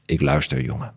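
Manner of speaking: measured literary read-aloud with lightly voiced dialogue; story narration. A narrator's reading. Author reading a bat story fragment to the interviewer, story narration. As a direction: read the tale aloud with deliberate phrasing.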